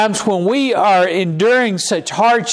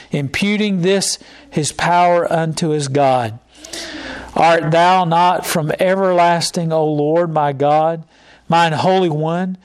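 measured, solemn Bible reading; scripture reading; 2 semitones lower than usual. Acted. Preacher reading Habakkuk to the congregation, solemn reading voice.

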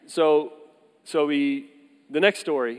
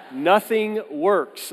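slow, higher, louder, through laughter; laughing repeat; 6 semitones higher, 4 dB louder, much slower than usual. Real, not acted. Pastor repeating the punchline to the congregation, laughing.

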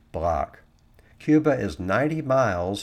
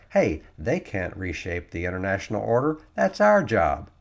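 mock indignation. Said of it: "It's like".

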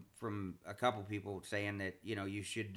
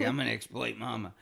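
laughing imitation; 5 dB louder than usual. Quoting child's thought, amused.

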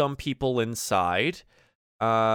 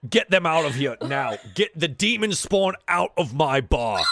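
firm, raised order to the guards; angry order; 4 semitones higher, 4 dB louder than usual. Acted. Barkeep orders the demon spawn out of his bar, firm and loud. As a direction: order them out, furious. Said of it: "He looks to the side and just".

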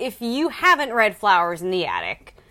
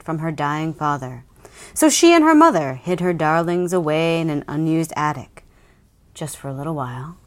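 dramatic blurb reading. Acted. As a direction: read it like a thriller trailer. Reads book blurb dramatically.

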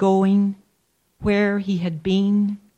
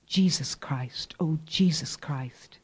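pained unvoiced whisper; 3 semitones lower, 6 dB quieter than usual. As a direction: breathe it out in pain. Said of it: "the pain that makes him whisper".

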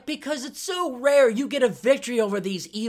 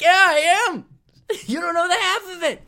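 high and louder, cracking up mid-boast; laughing smugly; 10 semitones higher, 6 dB louder than usual. Retold or imitated. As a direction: brag while laughing through it. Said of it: "trying so hard not to laugh".

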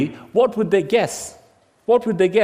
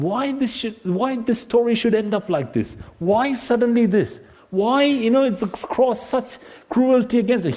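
higher-pitched, insistent puzzlement; bewildered questioning; 4 semitones higher than usual. Acted. Listener questions why the story ends so, bewildered. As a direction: keep asking why, pitch lifted.

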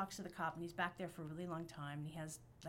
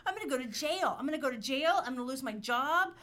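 higher, louder, rushed panic; panicked spiral; 4 semitones higher, 5 dB louder than usual. Retold or imitated. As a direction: spiral into fear.

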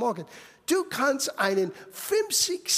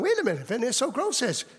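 laughing realization; faster than usual. Retold or imitated. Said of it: "oder du kannst sagen".

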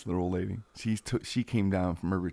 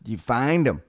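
stranger's hearty call; 3 semitones higher, 5 dB louder than usual. Retold or imitated. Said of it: "he goes".

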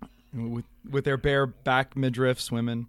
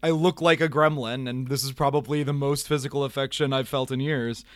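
mock paraphrase; 3 semitones higher than usual. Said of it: "he's saying, he's saying".

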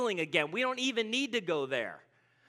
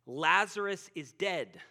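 stated plainly; 4 semitones lower, slower than usual. Retold or imitated. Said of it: "he told them plainly".

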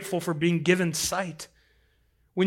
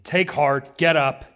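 sudden louder, urgent call; punchy, lifted call over a crowd; calling out encouragement; 5 dB louder, slower than usual. Acted. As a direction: rouse someone to their feet. Crowd calling to blind man.

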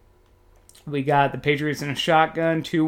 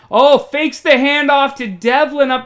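excited; 10 semitones higher, 8 dB louder than usual. Real, not acted. Big play unfolding.

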